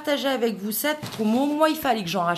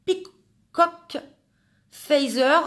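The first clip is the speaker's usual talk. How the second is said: heavy French accent on English; 5 semitones higher, 5 dB louder, much slower than usual. Real, not acted. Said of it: "un accent anglais à couper, euh, du beurre au couteau".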